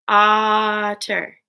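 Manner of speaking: otter in two separate beats; otter split into syllables. Shown as a demonstration. Teacher clapping along with pupils, otter split in two. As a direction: hold the opening of otter, then finish. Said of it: "Break words into parts".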